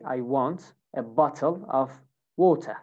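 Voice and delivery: British accent with a crisp T in bottle and water. Shown as a demonstration. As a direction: demonstrate British pronunciation, dropping the R in water. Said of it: "So here in British accent, I would say".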